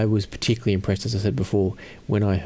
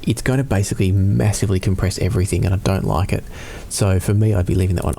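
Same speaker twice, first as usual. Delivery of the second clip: auto-gain compression; 3 dB louder than usual. Real, not acted. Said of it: "I'm gonna turn it on for just a second".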